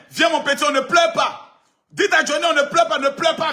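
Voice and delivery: loud, high, teasing coo at a crybaby; hammed-up parent soothing a child; mock consoling a crying child. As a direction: pretend to comfort a little boy, mockingly.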